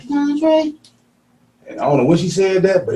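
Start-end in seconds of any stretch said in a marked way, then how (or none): 0.0-0.8 calling a name. Retold or imitated.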